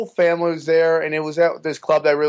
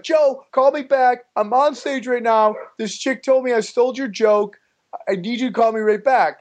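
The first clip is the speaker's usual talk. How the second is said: pleading voicemail; 6 semitones higher than usual. Retold or imitated. Retold urgent voicemail from stage.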